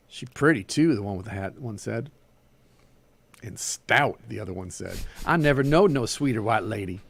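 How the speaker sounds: animated story reading with Southern dialogue; story narration. A narrator's reading. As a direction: read the tale aloud, giving each figure life. Reads a short story aloud.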